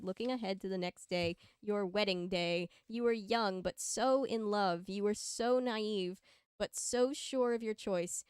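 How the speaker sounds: measured fan-fiction read-aloud; story narration. A narrator's reading. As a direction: read it out like a storybook, leaning on key words.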